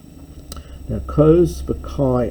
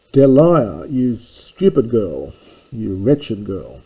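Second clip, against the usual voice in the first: a sharp, raised scold at a servant girl, lightly acted; scolding a slave; 4 dB louder than usual. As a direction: mistress berating her slave girl, mildly acted. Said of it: "where you abuse your slave".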